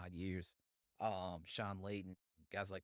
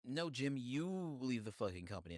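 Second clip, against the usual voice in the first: higher, forceful clapback; angry retort; 5 semitones higher, 4 dB louder than usual. Acted. Podcaster answering the ex-CEO's ultimatum, indignant. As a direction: fire the demand straight back at him. Heated retort to the former CEO.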